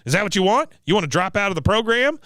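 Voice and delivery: high challenging veteran impression; Cotton. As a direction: goad her as a cranky old drill instructor. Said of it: "Cotton says".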